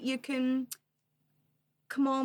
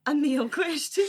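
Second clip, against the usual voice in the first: louder, higher, laughing through question; 5 semitones higher, 6 dB louder than usual. Real, not acted. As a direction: repeat it in disbelief, cracking up.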